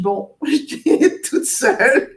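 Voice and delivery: laughing through the words as they climb; half-laugh at being all alone; light laugh in the voice. Retold or imitated. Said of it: "je dis".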